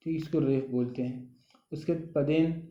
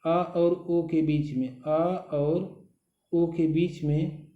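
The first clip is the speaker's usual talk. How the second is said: drawn out explanation; slower than usual. Shown as a demonstration. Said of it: "थोड़ा सा ओ का".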